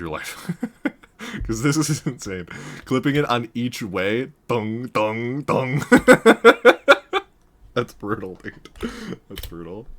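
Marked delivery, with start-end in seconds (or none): 4.5-5.8 three ringing "dong" sounds; imitated impact noise. Player mimics clipping on each stair, mock clanging.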